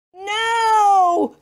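put-on high, loud child's yell; a girl's furious refusal, high and loud. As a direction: shout it in a tantrum. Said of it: "yelled Lulu".

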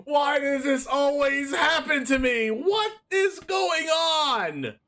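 exasperated. Real, not acted. Exasperated outburst at game.

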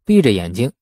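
ordinary delivery

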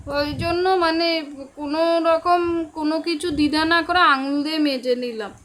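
talking while brushing teeth; words through a toothbrushing mouth. Real, not acted. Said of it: "ঘুম থেকে উঠে আমি এখানে কিন্তু ব্রাশ করছি".

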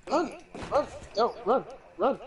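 sharp barked drill calls; yelling commands. Pretend. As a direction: bark them like a drill sergeant. Drill sergeant yelling at squad.

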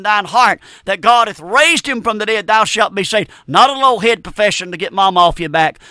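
steady, emphatic gospel proclamation; fervent preaching. Real, not acted. Preacher urging listeners to accept salvation, fervent preaching. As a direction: press each statement home like a preacher.

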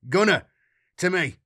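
loud, commanding call. A narrator's reading. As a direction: summon the giant to your side. Captain summons the giant.

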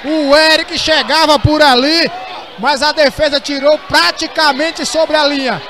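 rising excitement as the chance unfolds; excited commentary. Real, not acted. Near miss in live commentary.

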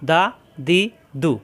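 দা, দি, দু each cut short, with no lingering; quick short vowels. Shown as a demonstration. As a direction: say দা, দি, দু as separate brief syllables. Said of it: "হারকাতের উচ্চারণ তাড়াতাড়ি". (দা, দি, দু দেরি না করে ছোট উচ্চারণ)

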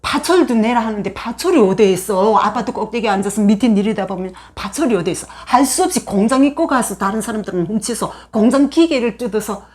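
ordinary delivery

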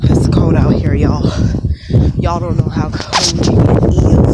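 put-on light country accent. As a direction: slip casually into a country accent. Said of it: "talking in this country accent".

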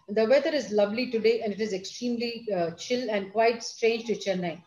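bland monotone with no feeling; flat, expressionless. Shown as a demonstration. Teacher showing students a toneless sentence, flat and bland. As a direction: say lovely weather as if it means nothing. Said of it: "My tone doesn't convey anything of what I mean".

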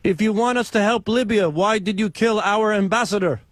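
put-on foreign accent, broken English. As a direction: prank caller with a fake foreign accent. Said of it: "why do you have an accent?".

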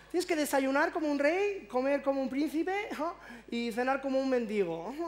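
mock the nutritionist's sing-song advice; imitating a nagging nutritionist; preachy nutritionist. Quoting the nutritionist's saying.

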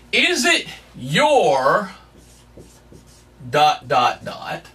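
slow question trailing into dropped dots; drawn-out spoken ellipsis. Shown as a demonstration. Preacher lets the congregation fill in the blank, slow and trailing. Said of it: "What is it that you are trusting in?".

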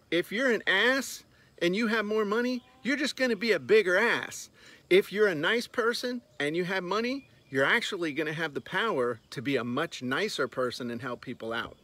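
normal talking voice

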